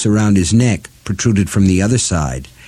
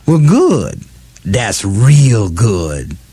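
witchy cackle on every word; cackling; much slower than usual. Acted. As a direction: cackle the words out slowly. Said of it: "she cackled".

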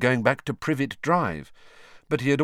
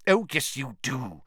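irritably; 5 semitones higher than usual. A narrator's reading. Professor contradicting a reluctant student, irritable. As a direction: overrule him with a touch of irritation. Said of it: "said Professor McGonagall irritably".

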